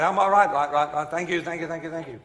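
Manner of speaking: loud start, repeats fading away; echoing building. Retold or imitated. Visitor replying inside old church, mimicked echo. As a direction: imitate your own reply echoing off the walls. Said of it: "The great thing about these old buildings".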